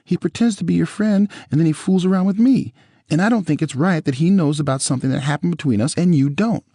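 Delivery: ex-wife pleading with her ex-husband, high and tearful; Nicole's voice. A narrator's reading. Nicole voiced in retold quarrel.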